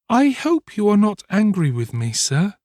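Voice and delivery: put-on high, pleading little boy; beseeching. A narrator's reading. Boy hopes his benefactor is not angry, beseeching. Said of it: "raising his eyes beseechingly".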